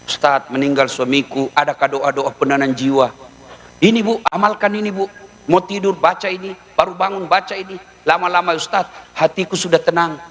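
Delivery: a hint of a lonely widow asking the preacher; imitating a widow. Widow voiced in a comic sermon.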